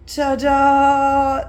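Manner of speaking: high loud triumphant reveal. Real, not acted. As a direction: present it proudly. Reveals finished page.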